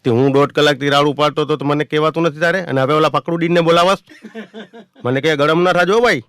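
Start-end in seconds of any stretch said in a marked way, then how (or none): 0.0-4.0 louder irritated snap; fed-up passenger snapping at his neighbour; angry retort. Retold or imitated. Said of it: "એટલે મારો પિત્તો ગયો". 5.4-6.2 high, loud placating plea; urgently soothing a hothead; man begging him not to get angry; pleading calm-down. Retold or imitated. Neighbour calms angry narrator.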